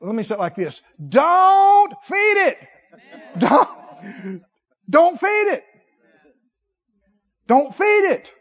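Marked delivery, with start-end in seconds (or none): 1.1-8.3 loud, high, slow Don't feed it; preaching shout. Acted. Preacher commanding the church not to feed desire, loud. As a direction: hammer it home.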